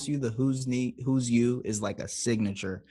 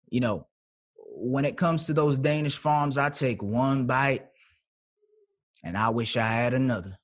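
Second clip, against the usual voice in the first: Texas accent. Shown as a demonstration. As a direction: do an audition monologue in a Texas accent. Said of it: "I want Texas, and I want it bad".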